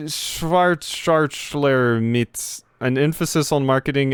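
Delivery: put-on stiff officious bureaucrat in a heavy German accent; clipped German-accented official bragging of his credentials. Gamer voicing the German official to the player, German accent. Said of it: "type of speech here".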